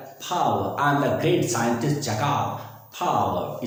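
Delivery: lightly voiced villain catchphrase, slow; a hint of a boastful TV villain scientist; Doctor Jaikal. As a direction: stretch पावर with an aspirated p. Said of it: "इस प्रकार से बोलता है".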